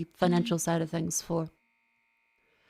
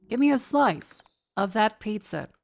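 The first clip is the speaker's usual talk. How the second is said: hungry guy voice. Shown as a demonstration. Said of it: "the cadence and the tone".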